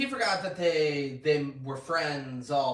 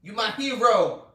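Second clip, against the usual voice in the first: mock dramatic line; 8 semitones higher, 10 dB louder than usual. Parody quote John Q.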